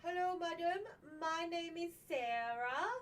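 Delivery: put-on light Middle Eastern accent, slow; mock scam caller accent. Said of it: "a very thick, uh, Middle Eastern accent saying".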